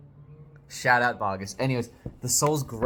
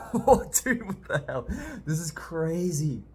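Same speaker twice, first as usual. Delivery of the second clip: stunned excitement; 7 semitones higher, 3 dB louder than usual. Real, not acted. Stunned by the page.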